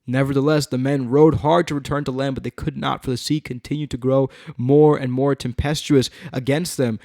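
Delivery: animated, emphatic Bible reading; dramatic scripture reading. A narrator's reading. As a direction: read it out to a congregation. Reads scripture aloud.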